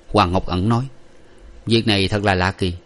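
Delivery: ordinary delivery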